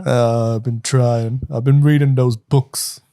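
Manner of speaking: slow dopey mob muscle; stupid voice. Acted. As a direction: say it like a big dumb oaf. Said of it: "the stupid voice".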